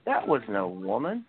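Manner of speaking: lightly voiced storytelling wrestler, slowing for the punchline; Terry Funk. Retelling a wrestler's sheriff joke, light Terry Funk impression. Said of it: "those funny Terry Funk promos".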